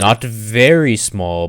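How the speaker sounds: very drawn out loud; stress on very. Acted. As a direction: lean on "very" slowly. Goblin compares the dwarf's size.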